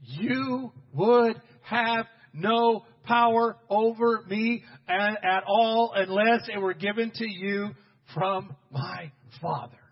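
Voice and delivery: very slow, weighty declaration; measured and emphatic, settling at the end; firm authority. Acted. Jesus answering Pilate's threat, firm and deliberate.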